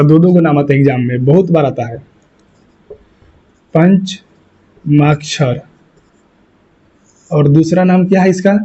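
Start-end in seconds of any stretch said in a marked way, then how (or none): 3.7-5.6 very slow, broken into syllables; drawn out. Shown as a demonstration. Teacher giving pupils the exam term, drawn out. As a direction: spell it out slowly, pausing midway.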